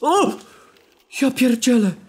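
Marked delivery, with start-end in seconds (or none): 1.2-1.9 high, startled, frightened cry. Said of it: "Ale się wystraszyłem".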